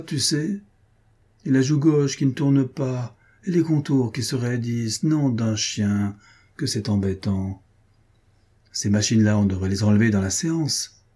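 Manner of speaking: grumbling. Acted. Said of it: "maugréant contre le menton".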